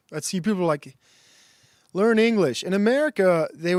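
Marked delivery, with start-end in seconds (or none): 1.9-2.6 loud, high mock order; pushy, raised-voice imitation; mock demand. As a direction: imitate locals barking a demand, raised pitch. Acted quote of hostile locals.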